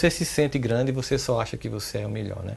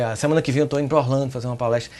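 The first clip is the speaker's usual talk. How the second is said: ordinary delivery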